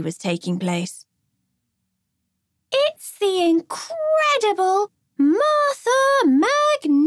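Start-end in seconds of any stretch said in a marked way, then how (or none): 2.7-7.0 high, slow, booming showman announcement; circus ringmaster. Acted. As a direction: announce it like a big-top ringmaster. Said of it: "in the theatrical voice of a circus ringmaster".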